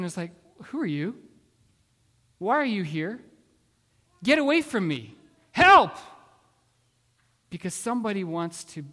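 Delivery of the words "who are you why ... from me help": defensive questions building to a loud, high shout; alarmed cry for help. Retold or imitated. Believer acted as forgetful wife pushing God away, alarmed cry for help. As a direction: start alarmed, then climb to yelling for help.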